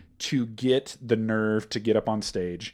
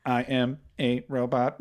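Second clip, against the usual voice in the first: slow, measured robot voice. Shown as a demonstration. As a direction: say it as a robot, word by word. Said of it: "robot impression".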